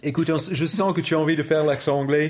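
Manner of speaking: put-on French with an English accent. Offering co-host a turn at it, English accent.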